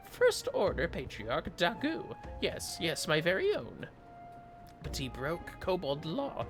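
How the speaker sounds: high, loud excitable kobold. Acted. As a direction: squeak it out like an eager little kobold. Voices a kobold NPC's dialogue.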